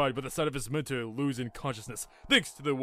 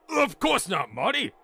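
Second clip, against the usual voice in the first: higher, exasperated professor; indignant rebuke; 7 semitones higher, 5 dB louder than usual. Acted. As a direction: set the youngster straight impatiently.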